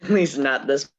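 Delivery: losing voice. Real, not acted. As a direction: push words through a tired, hoarse throat. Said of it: "I don't normally sound like a man".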